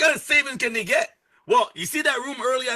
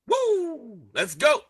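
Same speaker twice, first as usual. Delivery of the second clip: hype cheer; 4 semitones higher, much slower than usual. Real, not acted. Hyping the audience.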